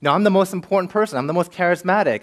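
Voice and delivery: entitled, self-important grumble; mock entitled whine. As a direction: play the proud newcomer demanding attention. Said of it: "there's a sense of self-righteousness, pride, entitlement".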